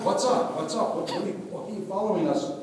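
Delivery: high, fast startled protest; what is this, why stop us. Acted. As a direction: brothers confronted on the road, high startled protest. Brothers stopped by soldiers.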